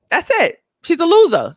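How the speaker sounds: high, loud dismissive verdict. Real, not acted. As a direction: toss her aside with scorn.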